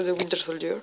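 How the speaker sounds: English title with a thick French accent; accent anglais pourrave. Real, not acted. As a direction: say the English words in a poor English accent. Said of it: "avec mon accent anglais pourrave". (accent anglais approximatif à la française)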